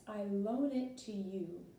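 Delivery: slow, careful English gloss; slow translation. Shown as a demonstration. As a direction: spell out the English slowly. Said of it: "now look at the response".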